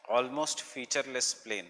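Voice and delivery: slow, measured phrases for note-taking; slow dictation. Real, not acted. Teacher repeating a definition to students taking notes, slow dictation. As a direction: space the words out so they can be written.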